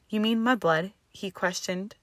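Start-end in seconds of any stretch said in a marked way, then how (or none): 0.1-0.9 "mudblood" stretched out as a taunting question; drawn-out slur. A narrator's reading. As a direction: draw out the word "mudblood". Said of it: "drawing out the derogatory term".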